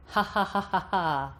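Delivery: measured witch cackle without twang. Shown as a demonstration. Voice coach cackling like a witch, no twang. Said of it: "cackle like a witch".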